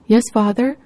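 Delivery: loud pleading cry; loud prayer. Acted. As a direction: call out loudly to God. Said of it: "prayed in a loud voice".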